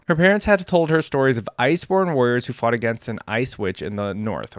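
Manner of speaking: even, measured read-aloud narration; story narration. A narrator's reading. YouTuber reading a champion's biography to viewers, story narration.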